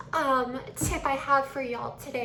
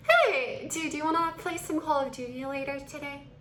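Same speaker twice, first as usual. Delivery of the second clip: elongated vowels. Shown as a demonstration. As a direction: stretch the greeting, then ask lightly. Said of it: "Completely different flow".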